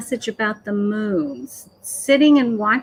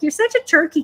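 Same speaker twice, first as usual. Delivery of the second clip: higher-pitched light mockery; retold tease with a lifted voice; playful teasing; 6 semitones higher, faster than usual. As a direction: poke gentle fun. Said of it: "He was making fun of me".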